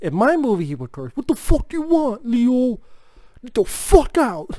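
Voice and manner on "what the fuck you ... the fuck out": put-on Brooklyn accent, pitched up. Imagining a cursing Raphael in the speaker's own movie, talking to Leo, Raphael Brooklyn voice. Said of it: "give Raphael a New York, like, Brooklyn voice".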